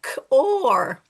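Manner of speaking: loud demo of Scottish car; car with the r sounded, Scottish style; Scottish accent. Shown as a demonstration. Teacher demonstrates an accent for phonics, Scottish accent. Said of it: "Put a Scottish accent".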